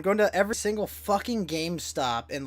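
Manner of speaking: ordinary delivery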